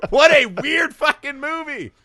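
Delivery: very high, loud, real laughing outburst; laughing exclamation. Real, not acted. Podcaster to co-host about the weird movie, loud laughing exclamation. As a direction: crack up and squeal the words through laughter. Cracks up at own riff and film.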